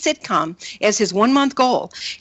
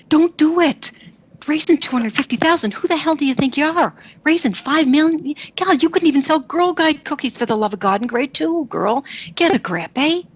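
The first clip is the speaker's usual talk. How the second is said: inner critic; 4 semitones higher than usual. Retold or imitated. Voicing inner critic identity.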